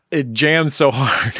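slowed, laughing through words. Real, not acted. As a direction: laugh while you praise it. Laughing about the song.

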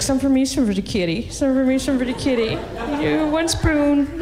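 singsong cat lady sharing yogurt; mock cat lady. Cat lady feeding her cat, lightly singsong. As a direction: coo to the cat, slowing at the end. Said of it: "you're like".

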